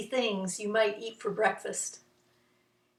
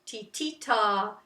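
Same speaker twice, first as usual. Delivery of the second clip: two short T's, one long ta; rhythm syllables; slower than usual. Shown as a demonstration. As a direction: chant it slowly in rhythm. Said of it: "and is probably a ta".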